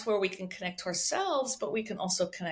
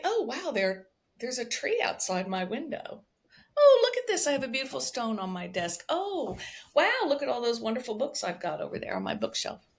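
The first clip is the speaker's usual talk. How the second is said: pleasant surprise. Pretend. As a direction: marvel aloud at small things, pretend discovery. Acting out noticing surroundings.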